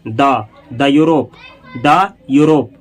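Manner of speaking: "द यूरोप" said as duh Europe. Shown as a demonstration. Teacher models the before a consonant, pronounced duh. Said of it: "इसको आप पढ़ेंगे द".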